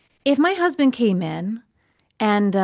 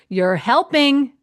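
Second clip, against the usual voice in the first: pointed accusation; 4 semitones higher, 4 dB louder, slower than usual. Retold or imitated. Husband catching her out.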